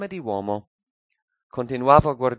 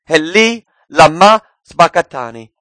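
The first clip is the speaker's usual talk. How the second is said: higher, louder quoted cry; retold loud cry; 4 semitones higher, 10 dB louder than usual. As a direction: call out each word, retelling a cry to God. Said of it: "gridò a gran voce dicendo".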